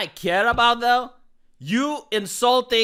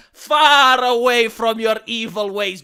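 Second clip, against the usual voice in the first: grand declaration; 6 dB louder than usual. Acted. Grand pledge.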